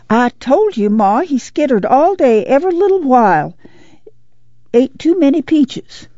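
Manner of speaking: put-on high, insistent child's voice; little girl. A narrator's reading. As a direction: tell on your brother in a high voice. Little girl reporting on her brother.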